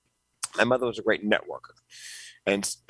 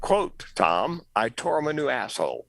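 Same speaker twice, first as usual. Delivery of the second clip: quoting senator; 5 semitones higher than usual. Retold or imitated. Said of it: "let me quote Elizabeth Dole".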